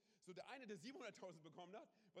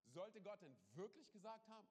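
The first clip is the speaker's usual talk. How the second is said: the serpent's doubt, pitched higher; sly serpent's question; 4 semitones higher than usual. Retold or imitated. Preacher voices the serpent twisting God's words, sly and higher. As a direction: sow doubt, lift the voice on Gott. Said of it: "und jetzt kommt's".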